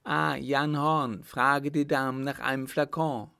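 urgent order. A narrator's reading. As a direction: call out the command. Emperor urgently orders his coachman. (dringend gerufener Befehl)

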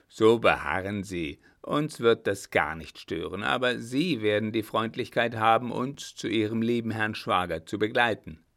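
lightly voiced marshal, firm and loud; a hint of a commander who brooks no refusal; imperious marshal. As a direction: order him along under cover of politeness. Blücher gives order with mock courtesy.

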